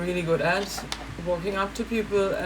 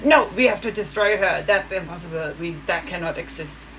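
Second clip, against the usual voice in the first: mocking triggered Germans; 2 semitones lower than usual. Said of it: "Always like, trigger".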